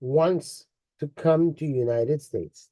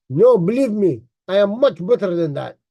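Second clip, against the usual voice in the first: lightly put-on Russian accent; copying a Russian-accented speaker; imitated Russian accent; 3 dB louder than usual. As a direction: mimic his boast in a Russian accent. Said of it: "try to even say it in his accent".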